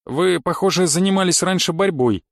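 "Вы, похоже, занимались раньше борьбой" said as a near-statement with a falling end; no questioning rise on "борьбой"; statement, not question. A narrator's reading. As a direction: assert it, letting "борьбой" fall at the end. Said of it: "Скорее утвердительно, чем вопросительно".

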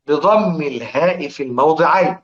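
said slowly, every word drawn out; slow and deliberate, for students to follow; slow reading. Shown as a demonstration. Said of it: "اقرأوا كده اهو". (نطق بطيء متأنٍ)

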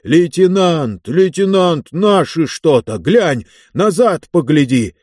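high, loud urgent calling; alarmed shouting. Acted. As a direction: call out in alarm. Soldier runs up calling alarm.

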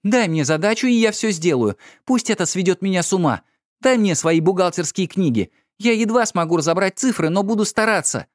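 high, overwrought outburst; wife frantically demanding a task; agitated pleading. A narrator's reading.

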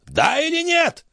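put-on very high, shrill shout of the old man; shouted demand. A narrator's reading. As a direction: demand an answer, shrieking. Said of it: "крикнул он".

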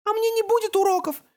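put-on high child voice, suspicious; suspicious toddler. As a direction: ask it warily like a small boy. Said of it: "с подозрением поинтересовался Беккет".

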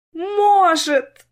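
high, woeful cry; miserable. A narrator's reading. Sister moaning to Clara, high miserable cry. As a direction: moan it, utterly miserable. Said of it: "самым несчастным голосом".

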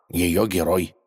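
plain reading voice

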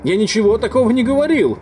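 high indignant shout. A narrator's reading. Narrator yelling his denial at the doctor, outraged. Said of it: "закричал я".

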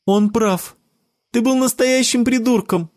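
put-on high girl's voice, scolding; a girl siding against her friend, high. A narrator's reading. Jessica scolds Sebastian, high girl's voice. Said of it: "подала свой голосок Джессика".

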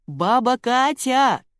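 put-on girl yelling herself hoarse for an old neighbour; straining yell. A narrator's reading. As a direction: holler up at the balcony. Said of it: "надрывалась Марина".

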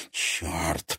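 quiet curse through gritted teeth. A narrator's reading. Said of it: "процедила девушка сквозь зубы".

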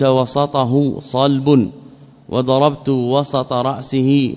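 وسطه and وسط with "wasat", an a after the s; وسط as two syllables, wa-sat; open middle vowel. Shown as a demonstration. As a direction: say both وسطه and وسط with a clear a on the seen. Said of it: "بفتح السين".

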